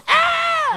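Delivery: very high, loud panicked shriek; man's shriek. Retold or imitated. Preacher voicing the guy over here, loud high shriek. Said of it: "the guy over here goes".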